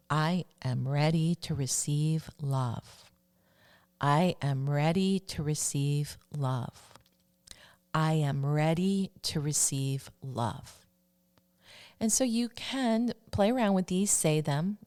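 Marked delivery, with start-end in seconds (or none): 0.1-10.9 slow, even affirmation; measured mantra for listeners to echo. Shown as a demonstration. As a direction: repeat it steadily, word by word. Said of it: "the fourth one that I'm going to share".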